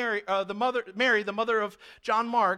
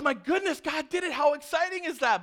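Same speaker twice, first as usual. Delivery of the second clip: excited; 5 semitones higher than usual. Pretend. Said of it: "so we'd be excited".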